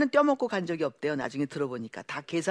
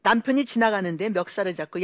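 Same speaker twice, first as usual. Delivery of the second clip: normal talking voice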